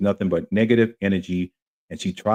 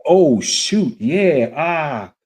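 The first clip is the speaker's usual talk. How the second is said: relieved excitement; 6 semitones higher, 4 dB louder than usual. Retold or imitated. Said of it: "And I was like".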